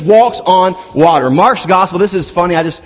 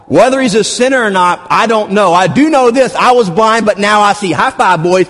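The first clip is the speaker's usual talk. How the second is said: excited defiance. Pretend. Healed man defying Pharisees.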